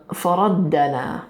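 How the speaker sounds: faraddana said slowly, each syllable clear; slow dictation of faraddana; careful faraddana. Shown as a demonstration. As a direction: faraddana spelled out in sound. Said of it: "that's not all one word".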